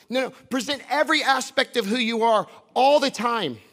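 forceful, emphatic sermon delivery; impassioned preaching. Real, not acted. Preacher urging the congregation to present their lives, impassioned preaching. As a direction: drive each phrase home to the congregation.

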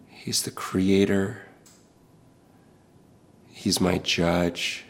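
hushed, whispered confession; whispered declaration of faith; reverent whisper. Real, not acted. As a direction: breathe it out softly in awe.

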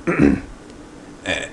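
lightly voiced bored dictator reading; bored monotone. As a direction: drone the speech flatly, bored. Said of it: "in a bored and monotone voice".

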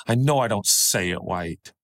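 a hint of a child's lisped "wight"; little boy accent. Father quoting his son admitting it, lightly voiced little boy accent. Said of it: "in his little boy accent".

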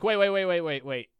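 retold interruption. Customer interrupts mid-scan.

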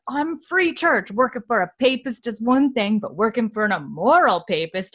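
lightly voiced scandalized old man; mock indignant Jordy. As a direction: play the huffy moralizing shopkeeper. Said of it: "he's like".

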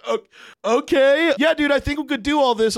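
high, laughing stunned okay; laughing disbelief. Retold or imitated. Caller laughing, stunned by the requests, high and breathless.

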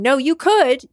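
pushing back as a doubtful listener; imagined listener objecting. Pretend. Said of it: "some of you listening right now might be thinking".

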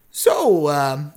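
genial stranger, inviting. Acted. Stranger opening up to questioning, lightly played courteous voice.

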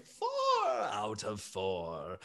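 low, soft and slow, sheepish; gentle elephant. Acted. Bertrand apologizing for his trumpet blast, low and soft. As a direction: say it softly, embarrassed after the outburst. Bertrand corrects himself softly.

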